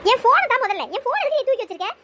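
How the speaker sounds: loud furious demand; angry shout. Acted. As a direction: yell it to get the phone back. Demanding her phone back.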